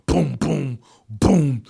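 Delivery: low, resonant sound-effect booms; imitated booms. Host retelling a film battle, mimicking booms. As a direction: voice each boom as its own hit. Imitates portals opening on screen.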